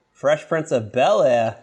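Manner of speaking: Bel-Air with a broad Boston vowel; Boston accent. Real, not acted. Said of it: "I just said that in a super Boston accent".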